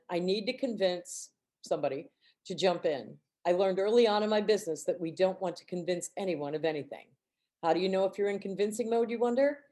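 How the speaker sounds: measured read-aloud of a book passage. Acted. Reading a business rule to the team call, even read-aloud. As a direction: read the rule out steadily to the group.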